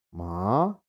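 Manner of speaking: "ma" sliding upward; second tone on "ma", pitch climbing; rising tone. Shown as a demonstration. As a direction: Mandarin rising tone. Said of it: "nada naik".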